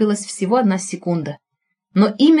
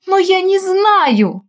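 slow, high and louder, despairing; desperate moan; 11 semitones higher, 4 dB louder, much slower than usual. A narrator's reading. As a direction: drag out the words in despair. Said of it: "в отчаянии простонала Таня".

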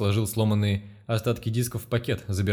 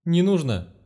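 high, loud desperate plea; the professor begging for his last disc; pleading; 7 semitones higher, 4 dB louder, slower than usual. A narrator's reading. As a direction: beg him to stop, voice pitched up. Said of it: "взмолился Гордон".

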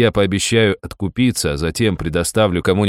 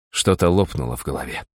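ordinary delivery, nothing marked

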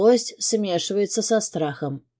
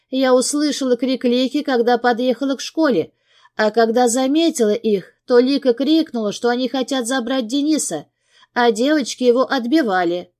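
tearful; 6 semitones higher than usual. A narrator's reading. Crying wife retelling the kidnapping.

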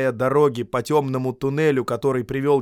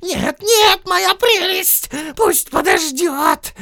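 much higher, slow hissing creature; Gollum hissing; 9 dB louder, much slower than usual. Acted. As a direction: hiss it dismissively. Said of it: "прошипел Голлум".

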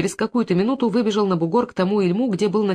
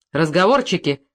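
a short louder bark of an order; shout; 3 dB louder than usual. Acted. The investigator cutting off a suspect's threats, shouting. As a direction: shut him up with one sharp word. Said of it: "крикнул на Зуева".

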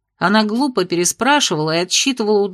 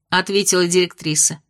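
usual speaking voice

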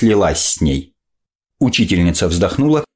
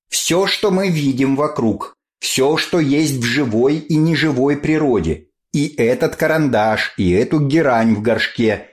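higher, sing-song classroom explaining; lecturing teacher; 5 semitones higher than usual. Acted. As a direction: lecture like a strict biology teacher. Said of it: "объясняла, расхаживая по рядам".

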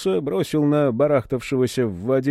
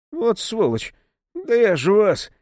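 outraged threat, much higher; furious; 9 semitones higher than usual. Acted. Serafim threatening the monks, furious and high. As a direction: spit out an enraged threat. Серафим в ярости угрожает.

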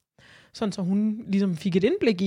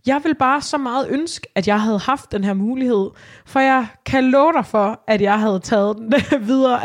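raised voice full of regret; emphatic outburst; 3 semitones higher, 7 dB louder than usual. Real, not acted. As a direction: insist with real frustration. Wishing she'd had that chance.

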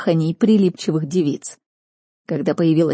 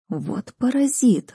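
a slow, disgusted swear; muttered curse; 6 semitones higher, slower than usual. A narrator's reading. Narrator cursing the duke's son under her breath. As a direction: spit out the insult slowly. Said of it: "ругнулась я".

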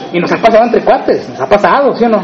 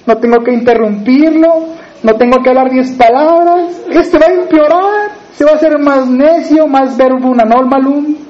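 a hint of fretting wives, rising higher near the end; worried sisters' voice; 3 semitones higher than usual. Preacher voicing the wives fearing their husbands will worsen, lightly fretting. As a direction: play the worried wife thinking aloud, lightly. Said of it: "han de estar las hermanas así".

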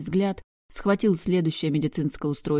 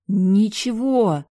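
long, higher, louder drawn-out word; drawn-out, higher and louder denial; 5 semitones higher, 6 dB louder, much slower than usual. A narrator's reading. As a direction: stretch the word out defiantly. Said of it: "протянула я".

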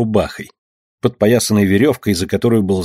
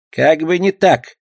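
retort; 6 semitones higher, slower than usual. Acted. Skipper retorts.

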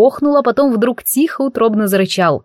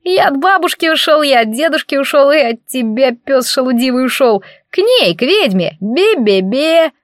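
cheeky squeaky taunt; 5 semitones higher than usual. Acted. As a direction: tease like a naughty little bun. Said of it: "смело пропищало". (колобок дразнит оборотня, высоко и писклявым голосом)

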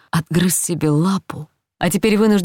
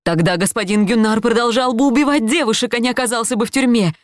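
higher, quicker retort she can't hold in; bursting out; 6 semitones higher than usual. A narrator's reading. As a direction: finally snap back, rushing the end. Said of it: "не выдержала я". (не выдержав, выпаливает мужу в ответ)

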